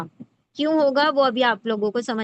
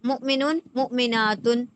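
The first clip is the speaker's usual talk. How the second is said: مسلماتن drawn out, leaning on the aat; teacher showing the feminine plural ending; slow demo pronunciation. Shown as a demonstration. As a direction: let مسلماتن unfold slowly against مسلمن. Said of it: "مسلمن،".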